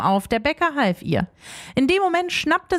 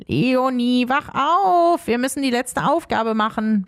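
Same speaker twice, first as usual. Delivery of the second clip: wake-up call. Acted. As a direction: call on auf, then settle. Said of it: "weckte sie Rumpel".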